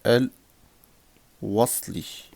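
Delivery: very slow, broken into syllable groups; drawn-out teacher's dictation with long gaps. Shown as a demonstration. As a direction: spell it out slowly for learners to write. Teacher dictating the term slowly.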